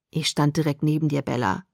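quiet seriousness toward Bella; serious. Acted. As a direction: drop the joking, mean it. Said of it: "Sein Tonfall war wieder ganz ernst".

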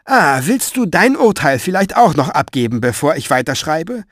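sharp irritated snap; snapping. Acted. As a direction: bite back at the interruption. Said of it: "fuhr Fenoglio ihn an". (gereizt anfahrend)

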